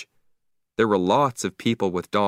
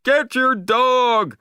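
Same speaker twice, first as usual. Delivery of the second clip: slow, loud, high furious demand; angry shout; 6 dB louder, much slower than usual. Acted. Beachgoer ordering the owner to grab Marley, loud angry yell. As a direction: yell it slowly and angrily. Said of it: "somebody shouted angrily".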